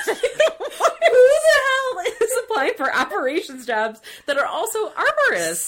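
high, loud laughing disbelief; laughing incredulity. Real, not acted. Podcaster mocking an absurd job requirement, laughing incredulously. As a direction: blurt it out helplessly through laughter.

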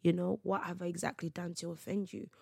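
softly spoken appeal; soft, unprovoked questions; calm questioning. Acted. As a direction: ask gently, without rising to the argument. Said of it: "So imagine I meet that with".

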